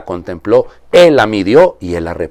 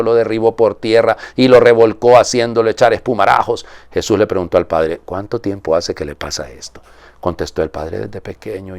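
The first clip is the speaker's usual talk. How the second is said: measured liturgical reading voice; solemn Gospel reading. Acted. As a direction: proclaim the Gospel to the congregation. Priest reads the Gospel aloud.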